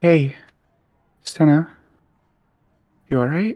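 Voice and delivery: kindly, gentle, easy tone. Walking up beside her to finally say what's on their mind, softly. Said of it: "sort of softly say".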